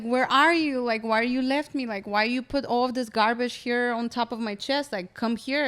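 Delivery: begging the spirit to come back; desperate calling out. Retold or imitated. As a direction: call out for help, pleading. Crying out to Mother Ayahuasca.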